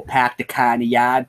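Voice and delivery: lightly imitated Boston accent; a touch of Boston with dropped r's. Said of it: "He was straight from Boston".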